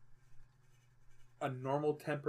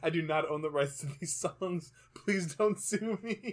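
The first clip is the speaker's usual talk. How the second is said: YouTuber disclaimer; 4 semitones higher, 3 dB louder, slower than usual. Retold or imitated. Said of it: "FMV videos".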